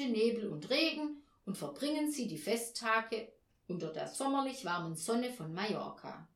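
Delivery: lightly voiced newspaper ad; father reading the ad to his family; ad read aloud. A narrator's reading. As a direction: read it like a travel advert. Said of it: "und las vor".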